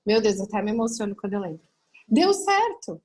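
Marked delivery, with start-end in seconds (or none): 2.1-3.0 higher, louder, choked-up exclamation; imitating tearful husband. Husband tells wife the test result, imitated tearful cry. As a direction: blurt it out as if crying with joy. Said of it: "chorava feito criança".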